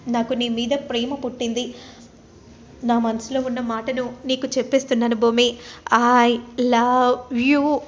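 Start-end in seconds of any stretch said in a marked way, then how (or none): 6.2-7.8 very slow, drawn-out "I love you"; slow tender confession. Acted. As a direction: stretch every word of the confession. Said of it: "అనే విధంగా అనగానే".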